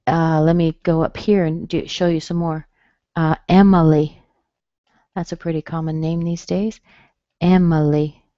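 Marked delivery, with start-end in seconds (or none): 3.5-4.2 "Emily" as EM-uh-lee, loud first syllable; reduced I. Shown as a demonstration. Teacher showing more names, reduced I in "Emily". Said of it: "the I has been reduced". 7.4-8.2 "Emily" as EM-uh-lee; reduced I. Shown as a demonstration. Teacher showing a common name, reduced I in "Emily". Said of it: "the I has been reduced".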